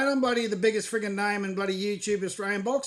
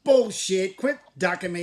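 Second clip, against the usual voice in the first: mock outburst; 4 dB louder than usual. Staged trash talk, cuts him off.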